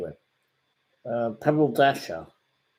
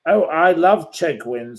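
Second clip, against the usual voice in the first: higher, slower mock-adoring voice; mock self-love; 6 semitones higher, 6 dB louder than usual. Mocking the troll as a vain fool, swooning. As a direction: mimic the vain troll swooning over himself. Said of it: "says Chegwin".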